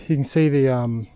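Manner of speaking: panting between words; winded from the uphill climb; out of breath. Real, not acted. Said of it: "oh, I'm out of breath".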